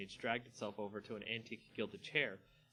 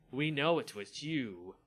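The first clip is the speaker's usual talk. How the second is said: hissed threat; 2 semitones higher, 6 dB louder, slower than usual. Acted. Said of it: "Olivia hissed".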